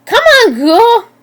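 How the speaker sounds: loud, high, drawn-out goading yell; screaming. A narrator's reading. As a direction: scream it to egg on an animal. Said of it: "they screamed".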